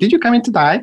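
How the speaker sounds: put-on Australian accent, very high-pitched. Retelling what a woman said to a patient, in an Australian accent. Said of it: "That's my Australian accent".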